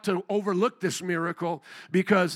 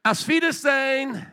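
retold proud farewell; 4 semitones higher than usual. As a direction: call it out with a laugh in it. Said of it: "as they were leaving, I said".

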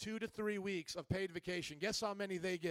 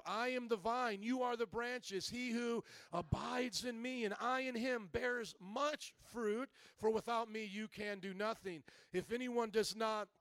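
emphatic, declaimed Bible verse; scripture reading. Acted. Pastor reads the vine verse to the congregation, scripture reading. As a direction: proclaim the verse to the room.

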